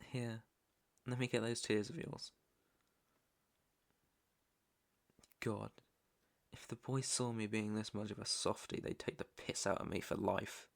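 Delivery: gentle, quietly sheepish; tender. Acted. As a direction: soften and drop the voice to soothe. Softens while wiping captive's tears.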